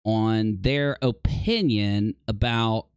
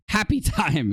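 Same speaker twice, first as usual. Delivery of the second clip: laughing; 4 semitones higher than usual. Shown as a demonstration. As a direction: laugh breaking into the word. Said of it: "You gotta be happy and calm".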